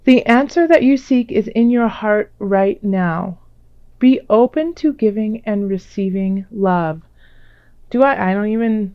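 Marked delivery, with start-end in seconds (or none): 0.0-7.0 louder, deliberate card reading; reading aloud. Real, not acted. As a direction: read the message out with emphasis. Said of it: "Let me read it to you".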